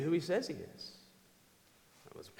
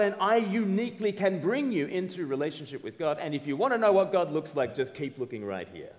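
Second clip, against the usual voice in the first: grandiose self-claim; 3 semitones higher, 3 dB louder than usual. Pretend. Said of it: "if I just opened up to you by saying".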